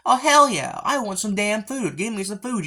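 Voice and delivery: mock-demand the food at full volume; greedy mock yell. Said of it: "she's just like".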